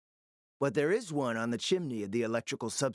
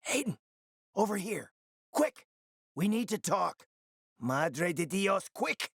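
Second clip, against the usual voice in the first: high, pressing call to come quick; hurried call; 5 semitones higher than usual. Acted. Ally calling Aiden over before time runs out, high and rushed. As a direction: snap him over, pitch jumping up.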